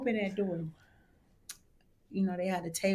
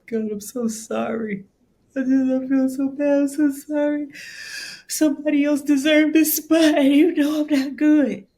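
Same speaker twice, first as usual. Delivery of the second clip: higher, louder, upset apology; tearful apology; 8 semitones higher, 8 dB louder than usual. Retold or imitated. Crying in the bathroom after getting a yes, upset higher apology. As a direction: sound close to tears, sorry.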